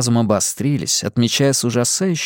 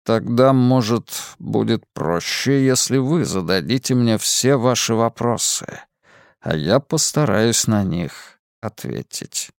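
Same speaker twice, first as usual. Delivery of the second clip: mysterious man. Acted. Lazarus calm, slow.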